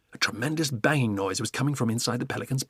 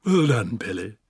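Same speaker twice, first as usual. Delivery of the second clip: giraffe crying out; 4 dB louder than usual. Acted. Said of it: "cried the giraffe".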